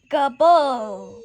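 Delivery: turkey gobble. Retold or imitated. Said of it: "The turkey goes gobble".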